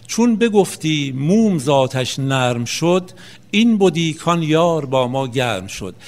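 slow, metrical verse with drawn-out syllables; poetry recitation. Acted. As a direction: recite each half-line slowly and deliberately. Recites verses attributed to Mowlana. (شعرخوانی آهسته، موزون و کشیده)

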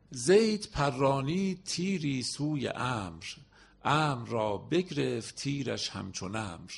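slow, measured verse reading; poem recitation. Acted. Teacher reading the Zayd and Amr couplet to students, slow. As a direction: read the couplet slowly, word by word.

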